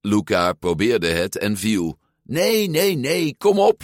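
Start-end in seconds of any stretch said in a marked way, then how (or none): 2.2-3.8 high-pitched, insistent protest; exasperated urging. A narrator's reading. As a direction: urge him on in a much higher voice. Alberto urges Luca after fall.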